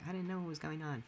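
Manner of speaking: high-pitched mock innocence; mocking quote. Streamer imitates someone claiming ignorance, mocking. Mocking the same complaint again.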